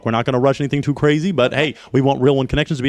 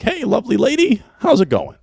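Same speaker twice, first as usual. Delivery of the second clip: mock pickup line; 11 semitones higher than usual. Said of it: "would you be like".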